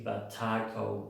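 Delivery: slow "The Taco" with a wide open A, like the Spanish food; "The Taco" in the open-vowel English accent; other accent's A. Shown as a demonstration. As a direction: draw out the A in "Taco". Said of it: "de hecho, se escucha así".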